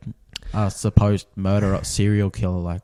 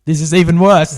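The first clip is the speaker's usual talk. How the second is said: loud, high-pitched disbelief; appalled; 8 semitones higher, 9 dB louder than usual. Real, not acted. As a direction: exclaim it in rising horror. Horrified as story gets worse.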